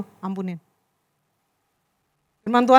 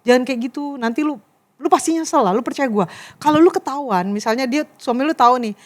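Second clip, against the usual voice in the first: lower, softer heart-to-heart advice; gentle admonishing; 3 semitones lower, 3 dB quieter than usual. Retold or imitated. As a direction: reason quietly with a straying friend. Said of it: "kan pengennya baik-baik ya".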